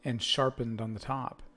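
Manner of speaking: measured scene-setting read-aloud; game master narration. Acted. Game master describing a fort to the players, narrating.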